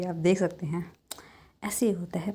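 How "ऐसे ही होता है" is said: soft whisper to the viewers; whispered aside. Real, not acted. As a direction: whisper it like a little secret. Aside while showing the video. (धीमी फुसफुसाहट में)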